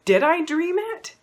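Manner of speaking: high, unsure questioning; mock self-doubt, second-guessing your memory; doubting yourself. Victim asking herself, high and unsure. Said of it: "You start to say".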